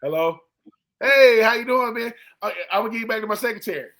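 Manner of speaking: hammed-up fake secretary voice, lightly done; disguised agent voice. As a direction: play a one-man office faking a receptionist. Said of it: "And they do the voice".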